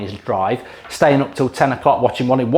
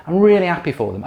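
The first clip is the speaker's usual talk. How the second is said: mock sincere, pushed harder; 4 semitones higher than usual. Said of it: "sits there and goes".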